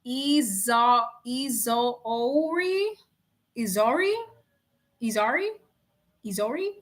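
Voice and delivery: testing Izoori, Izori, Izari slowly; trying out a name. Real, not acted. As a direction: sound out the name Izori unsure. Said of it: "that's how I pronounced it in my head".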